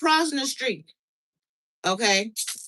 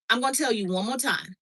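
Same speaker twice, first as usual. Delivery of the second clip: stern mommy mode; 5 dB quieter, faster than usual. Retold or imitated. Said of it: "I went into mommy mode".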